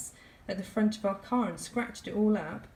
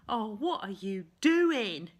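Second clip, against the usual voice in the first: slow, louder mock Cockney call; Cockney accent; 4 dB louder, slower than usual. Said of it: "in her Cockney accent".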